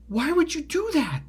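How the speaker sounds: high, incredulous demand; indignant reproach. Retold or imitated. Asking his friend about the prank, indignant. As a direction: demand it high, appalled at him.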